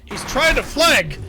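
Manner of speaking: high, loud, slow whiny shout. Retold or imitated. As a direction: yell it like a whiny panicked soldier. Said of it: "in that high, whiny voice".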